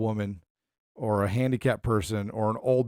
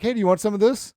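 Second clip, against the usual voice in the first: sneaky prankster; 8 semitones higher, 5 dB louder, faster than usual. Retold or imitated. Prankster offering laxative drink.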